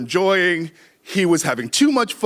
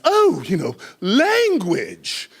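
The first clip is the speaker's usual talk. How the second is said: mock scolding; 3 semitones higher, slower than usual. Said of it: "sort of jokingly sort of turns".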